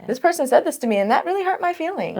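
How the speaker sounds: high and fading to a hush; vulnerable admission. Pretend. Admitting hurt to a colleague, high and softening. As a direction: let it drop soft and small by the end.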